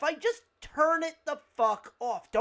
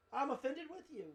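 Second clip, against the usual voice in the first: much softer, matter-of-fact quote; 10 dB quieter than usual. Retold or imitated. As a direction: toss it off quietly as a list item. Same answer repeated quietly as recap.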